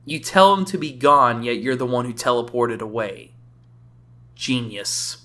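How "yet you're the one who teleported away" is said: ordinary talk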